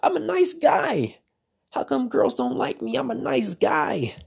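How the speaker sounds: mock your old whining nice-guy self. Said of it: "I used to literally say".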